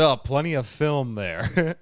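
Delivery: a film snob gushing about a movie; mock snooty line. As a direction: lean into a snobby film critic. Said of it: "No one ever says".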